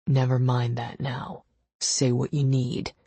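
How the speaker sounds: a hint of a terse boss; brusque and matter-of-fact; lightly voiced curt husband. Gideon laying down rules to Ava, curt.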